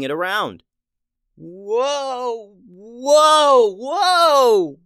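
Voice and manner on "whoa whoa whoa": high, loud alarmed yells; yelling whoa. A narrator's reading. Addison swung around on his sword, high panicked yells. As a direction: yell while being swung through the air. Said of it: "yelled Addison".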